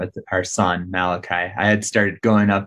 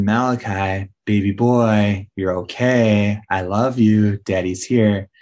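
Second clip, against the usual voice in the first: tag soothing; slower than usual. Retold or imitated. Soothing his crying newborn, retold.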